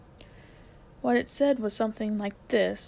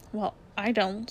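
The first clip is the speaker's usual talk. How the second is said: cross. A narrator's reading. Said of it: "said Polly crossly".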